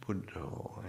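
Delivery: Buddho ending in a long "oh"; Thai pronunciation. Shown as a demonstration. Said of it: "in the Thai pronunciation".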